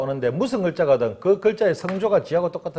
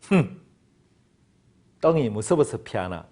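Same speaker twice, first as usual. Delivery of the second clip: sore loser's excuse; 4 semitones lower than usual. Acted. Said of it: "한국 사람 십팔 번".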